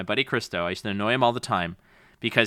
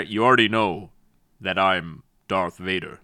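lightly voiced Vader; 5 semitones lower than usual. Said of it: "he's like".

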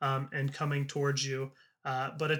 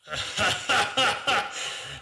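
villain laugh; 5 semitones higher than usual. Acted. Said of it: "And Felix is just laughing".

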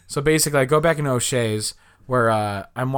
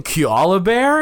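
slow, high Aussie drawl rising at the end; imitated Australian accent; 6 semitones higher, 4 dB louder, slower than usual. Guest mimics how the Australians said it, mock accent. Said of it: "they kept saying".

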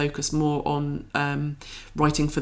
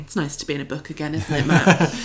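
laughing; faster than usual. Real, not acted. Laughs while teasing co-host.

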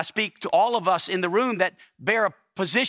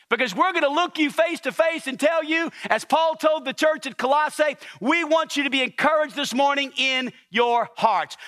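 raised preacher's voice, pressing the point home; fervent preaching; 7 semitones higher than usual. Acted. Pastor urging the congregation to encourage one another, fervent. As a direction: preach it with rising conviction.

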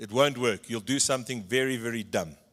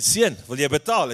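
stern tannie; 6 dB louder than usual. Retold or imitated. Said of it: "She said".

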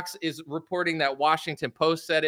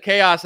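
"chaos" pitched up and loud; mimicked emphasis; 4 semitones higher, 6 dB louder than usual. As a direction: punch "chaos" like a news anchor. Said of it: "the way she said".

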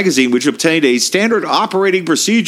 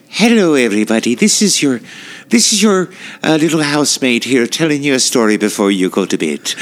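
put-on kids' storyteller voice. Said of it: "the voice you use with the kids".

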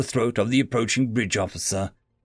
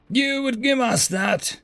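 hopeful disbelief; 11 semitones higher, slower than usual. A narrator's reading. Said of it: "a look of incredulity mixed with hope".

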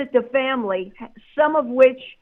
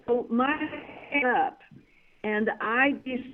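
signal cutting out on a call-in line; broken-up phone audio; radio breaking up; 4 dB quieter than usual. Real, not acted. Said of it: "Gammy, you keep breaking up".

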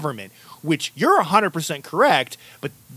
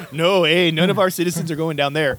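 badly faked Canadian accent; hammed-up Canadian accent. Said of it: "That was a terrible Canadian accent".

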